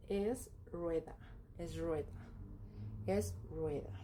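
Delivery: es rueda repeated as a model; pronouncing es rueda. Shown as a demonstration. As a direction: demonstrate es rueda for learners. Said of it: "se pronuncia".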